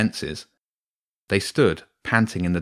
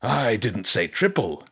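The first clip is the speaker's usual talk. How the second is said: slow, sly wolf correction; 3 semitones higher than usual. Acted. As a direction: correct him slowly, like a wolf.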